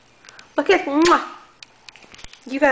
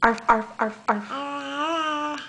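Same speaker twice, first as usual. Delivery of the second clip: dog bark; 7 dB quieter, much slower than usual. Retold or imitated. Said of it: "What did dog say?".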